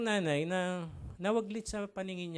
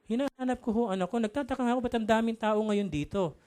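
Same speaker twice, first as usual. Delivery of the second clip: a touch higher, insistent; lightly voiced mother; 4 semitones higher, 4 dB louder than usual. Mother telling the reporter about her search, lightly acted puzzlement. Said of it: "Sabi naman ng babae".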